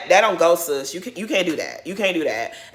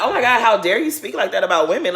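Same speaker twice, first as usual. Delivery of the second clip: appalled retelling of own reaction; mildly louder, scandalized outrage; disgusted; 2 semitones higher, 4 dB louder than usual. Retold or imitated. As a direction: recount it with indignant disgust. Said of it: "I was totally disgusted".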